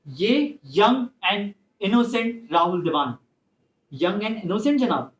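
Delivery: put-on slow, sneering young and innocent; slow mocking sarcasm toward the judge; sarcastic. Lawyer mocks the accused's innocence.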